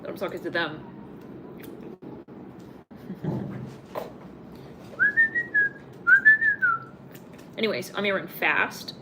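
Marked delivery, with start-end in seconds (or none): 0.9-7.5 a long, high, bubbling laugh; high giggle. Real, not acted. Reader laughing at her own mix-up. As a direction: giggle it out, caught off guard.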